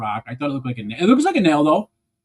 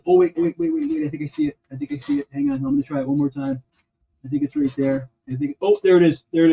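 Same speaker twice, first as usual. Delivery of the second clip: high fast wait wait wait, eager; sudden hope on spotting it; excited spotting; 11 semitones higher, faster than usual. Real, not acted. Spots the lost piece.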